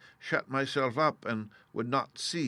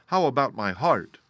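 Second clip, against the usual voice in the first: a plaintive tin man voice; Tin Woodman asking; 2 semitones higher, 7 dB louder than usual. Acted. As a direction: ask hopefully, as the Tin Woodman. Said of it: "asked the Tin Woodman".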